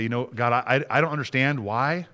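soft, earnest talk to God; quietly entrust yourself, halting at first; subdued, sincere prayer of trust. Shown as a demonstration. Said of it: "we need to stop and say".

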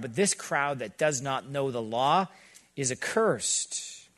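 slow, scornful put-down of the crowd. Retold or imitated. Pastor voicing the elites' scorn for the crowd, slow and scornful. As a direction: sneer it out slowly, looking down on them. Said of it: "You can hear the scorn in their words".

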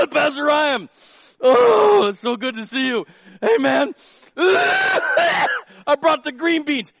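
high, loud, coughing cheer; overjoyed guest sputtering through a cough; cheery sick guest. Acted. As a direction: burst in delighted while hacking.

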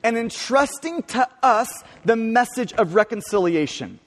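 "us" in "entrusting to us" is stressed and held, then a falling finish. Shown as a demonstration. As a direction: hit "us" as the key word of the line.

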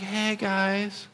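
a lightly voiced timid hey; shy Timothy. Timothy greeting the church, lightly voiced and timid. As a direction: say it small and shy. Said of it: "Timothy's a little bit more shy".

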